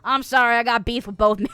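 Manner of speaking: loud British accent; playful British accent. Shown as a demonstration. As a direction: carry on in a put-on British accent. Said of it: "do a half-decent British accent".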